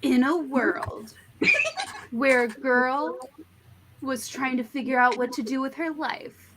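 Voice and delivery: slow, dramatic trailer narrator, half laughing; lightly voiced epic announcer; movie trailer voice. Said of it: "you know the Mister Megaphone voice".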